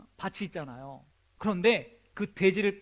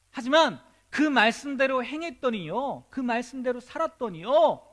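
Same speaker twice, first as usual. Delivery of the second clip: raised, fervent sermon voice building higher; passionate preaching; 5 semitones higher, 4 dB louder than usual. Acted. A pastor urging his congregation, fervent preaching. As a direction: drive the point home to the congregation.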